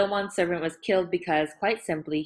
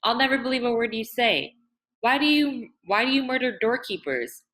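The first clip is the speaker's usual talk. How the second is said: higher, louder accusing woman's voice; accusing outburst; 6 semitones higher, 4 dB louder than usual. A narrator's reading. Nur confronting Saeed over the murders, raised and accusing. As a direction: throw the accusation at him.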